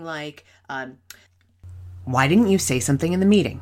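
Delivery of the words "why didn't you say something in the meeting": accusing "didn't" at a fast clip; stress on DIDN'T. Shown as a demonstration. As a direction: lean hard on "didn't", quick and loud. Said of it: "The word that we put the emphasis on".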